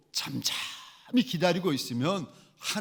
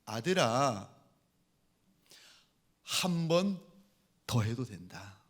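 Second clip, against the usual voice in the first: God speaking; 5 semitones lower, slower than usual. Retold or imitated. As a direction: answer gently as God to a son. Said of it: "하나님이 말씀을 하시는데".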